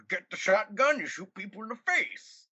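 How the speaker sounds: silly gruff voice. Retold or imitated. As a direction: bark it like a cartoon redneck. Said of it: "what the heck was that voice".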